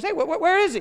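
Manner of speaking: high-pitched, stammering mock bafflement; baffled demand. Religious leaders quiz soldiers back empty-handed, mock baffled and high.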